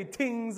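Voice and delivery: "things" said as "tings", Jamaican style; Jamaican pronunciation. Shown as a demonstration. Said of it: "it's what Jamaicans do".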